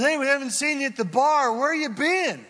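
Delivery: high, loud barroom buddy call-out; mock barfly greeting, high and loud; drinking buddy. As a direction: hail him like an old bar pal. Drinking buddy voiced in story.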